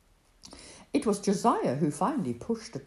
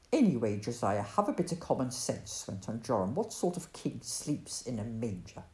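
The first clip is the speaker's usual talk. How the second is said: snapped; 4 semitones lower than usual. Acted. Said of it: "he snapped".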